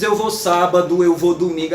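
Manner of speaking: stiff, unlinked Eu vou sábado; overly careful. Shown as a demonstration. Lecturer mocking how nobody really talks, stiff and careful. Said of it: "na oralidade ninguém diz".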